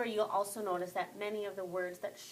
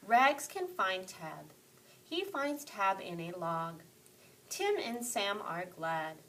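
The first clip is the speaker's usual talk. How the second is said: storyteller. Shown as a demonstration. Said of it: "I want to sound more like a storyteller".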